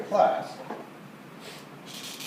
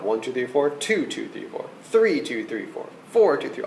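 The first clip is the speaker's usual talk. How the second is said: counting rests softly; 3 semitones lower, 5 dB quieter than usual. Shown as a demonstration. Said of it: "Do it just like I did".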